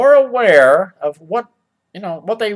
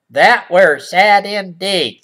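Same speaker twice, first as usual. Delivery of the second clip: put-on old-fashioned line again; 4 dB louder, slower than usual. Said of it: "said the boy".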